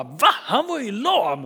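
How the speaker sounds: high, slow disbelief; astonished. Retold or imitated. Temple visitors shocked that the lame man walks, high and amazed. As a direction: gasp at the impossible. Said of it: "det finns vissa som bara".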